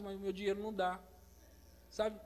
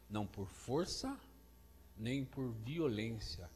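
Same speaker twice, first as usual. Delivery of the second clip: scripture reading; 7 semitones lower, 4 dB quieter, slower than usual. Acted. Slow solemn scripture reading.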